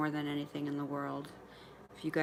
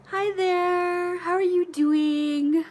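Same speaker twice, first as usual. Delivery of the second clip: much higher, louder, stretched-out hello; high excited greeting; 14 semitones higher, 9 dB louder, much slower than usual. Real, not acted. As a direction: sing out a bright welcome to a newcomer. Greeting a viewer who just joined.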